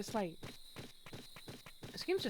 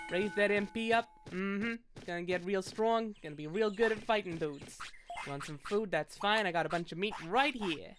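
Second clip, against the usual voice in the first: put-on light New York accent. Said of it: "The accent does kinda bring".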